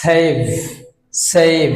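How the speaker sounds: সেভ as "seiv"; long ei glide in সেভ; correct pronunciation. Shown as a demonstration. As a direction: finish সেভ on a buzzing v. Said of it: "উচ্চারণ হবে".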